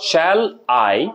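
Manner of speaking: "Shall I" in two separate beats, weight on I; unstressed Shall, then a stressed I after a gap. Shown as a demonstration. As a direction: break "Shall I" apart and stress I. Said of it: "আইটা হচ্ছে stress syllable".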